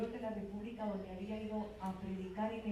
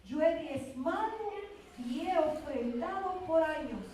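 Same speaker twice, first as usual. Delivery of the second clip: bold retold prayer; 6 semitones higher, 4 dB louder than usual. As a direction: press each phrase upward, claiming what is owed. Acts out her bold prayer to God. (oración audaz e insistente)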